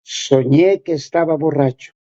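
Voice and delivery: low, subdued, imitating a sad confession; retold sadness. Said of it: "con mucha tristeza, me decía".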